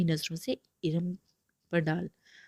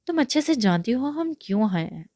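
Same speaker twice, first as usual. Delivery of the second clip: menacing; 5 semitones higher, 4 dB louder than usual. Acted. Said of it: "کھا جانے والی نظروں سے کہا".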